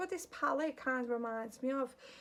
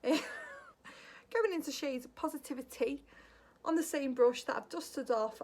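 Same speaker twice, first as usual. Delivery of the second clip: slow, drawn-out gossip voice with a laugh; a hint of a sassy gossip; gossipy put-on voice; 4 dB louder than usual. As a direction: spill the tea as you name the shade. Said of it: "Spilling all that tea, Jackie".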